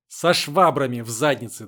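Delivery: loud scolding threat; angry threat. A narrator's reading. Натка threatens both girls, loud and angry. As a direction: threaten them loudly.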